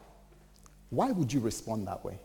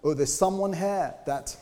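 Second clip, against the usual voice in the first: imitating a dramatic prophet, higher and louder; mock prophet; 7 semitones higher, 4 dB louder than usual. Preacher mimicking a false prophet, mock dramatic doom. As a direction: ham up a doom-laden prophecy. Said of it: "They were prophesying".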